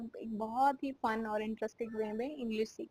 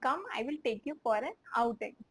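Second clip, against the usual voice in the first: slow, word-by-word repeat; much slower than usual. Shown as a demonstration. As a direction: repeat it slowly for learners. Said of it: "तो".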